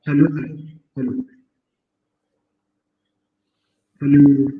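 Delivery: echoey big room sound. Real, not acted. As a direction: voice echoing in a large room. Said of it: "इको आ रहा है बहुत".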